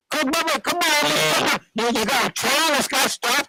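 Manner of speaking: high, pleading come on; incredulous come on; exasperated. Real, not acted. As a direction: throw up your hands in disbelief. Exasperated outburst about village.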